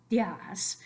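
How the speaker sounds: días whispered as one syllable, dyas; whispered wrong días. Shown as a demonstration. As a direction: breathe días out in one beat. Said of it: "Say it in one syllable".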